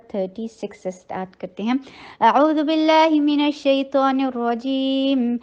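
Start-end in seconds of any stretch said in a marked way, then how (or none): 2.2-5.4 slow, measured tajweed chanting; Quranic recitation. Shown as a demonstration. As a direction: recite it slowly, melodic and drawn out. (قرآنی تلاوت، آہستہ اور ترنم سے)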